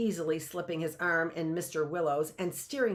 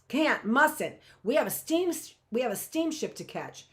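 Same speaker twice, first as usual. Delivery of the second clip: higher, stammering and flustered; a shy man stammers his excuse to Frank, flustered; flustered stammering Mister Willow; 6 semitones higher than usual. Acted. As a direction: trip over the words like a blushing man. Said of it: "commences to stutter and squeak".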